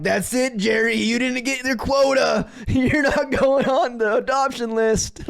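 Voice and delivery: loud, high, drawn-out mock tirade; hammed-up boss yelling out a verdict; angry boss man. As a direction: bellow it like a boss punishing an underling. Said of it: "boss man to be like".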